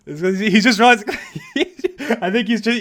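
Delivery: high, slow, words broken by giggles; laughing. Real, not acted. Commentator amused by how friend says it, laughing. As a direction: talk through real laughter.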